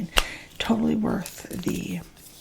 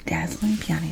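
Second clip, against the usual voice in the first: breathy whispered trigger word; 3 semitones lower than usual. Shown as a demonstration. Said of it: "repeated trigger word".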